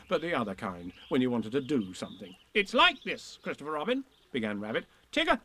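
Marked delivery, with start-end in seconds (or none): 2.5-5.4 higher, brisk busy rabbit; lightly voiced fussy rabbit. Rabbit explains.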